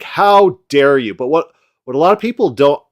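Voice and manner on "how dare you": mock outrage. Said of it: "where he's like".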